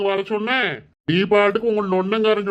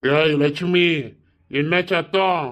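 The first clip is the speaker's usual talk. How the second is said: calling out; 3 semitones lower, slower than usual. Acted. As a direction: bellow her name across the house. Husband shouting for wife.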